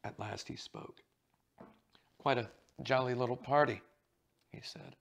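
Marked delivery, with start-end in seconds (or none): 2.2-3.8 thick voice. Acted. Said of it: "His voice was thick".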